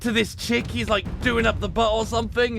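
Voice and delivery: loud, high, frantic storytelling; manic yelling. Real, not acted. Voice actor ranting about a hentai scene, manic and loud.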